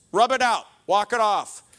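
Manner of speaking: brusque dad. Retold or imitated. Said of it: "my other quotes".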